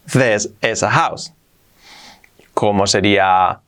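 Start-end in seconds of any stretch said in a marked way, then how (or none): 0.1-1.3 slow demo. Shown as a demonstration. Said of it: "Si decimos esto es una casa".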